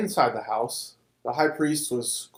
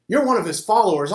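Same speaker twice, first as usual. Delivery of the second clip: accusing; 6 semitones higher, 4 dB louder than usual. A narrator's reading. Man accuses Peter.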